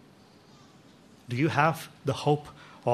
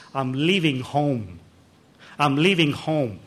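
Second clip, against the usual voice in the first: despairing whisper; slower than usual. Acted. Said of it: "he whispered to the doctors in despair".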